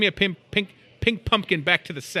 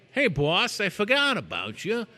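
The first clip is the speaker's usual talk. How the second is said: mock apologetic employee; 6 semitones higher than usual. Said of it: "I don't know if you talk like that".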